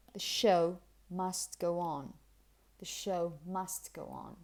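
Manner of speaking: slow model with "show" and "go on" stressed; measured demo, weight on "show"; key words stressed. Shown as a demonstration. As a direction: lean on "show", keep "The" weak. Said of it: "what you pronounce properly and really".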